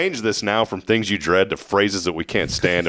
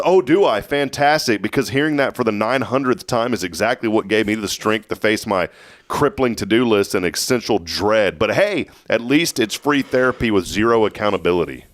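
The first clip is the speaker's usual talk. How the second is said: sarcastic roast. Acted. Host roasting an overused phrase on air, sarcastic. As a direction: feign gratitude for the tired pep talk. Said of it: "I'm gonna roast this phrase".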